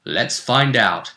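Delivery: hyped tournament intro with punched key words; show announcer. Acted. Host teasing the tournament to viewers, announcer hype. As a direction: build suspense like a fight promoter.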